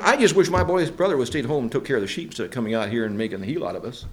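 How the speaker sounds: rapid, low brotherly complaint; grumbling. Acted. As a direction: grumble quickly, letting it sink away. Embarrassed brothers complaining about David.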